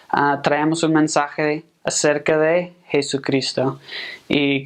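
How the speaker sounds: clean, proper Mexican Spanish accent, unhurried street greeting; polished Mexican Spanish accent. Shown as a demonstration. Missionary greets a stranger on the street, in a polished Mexican Spanish accent. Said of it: "you'd be like".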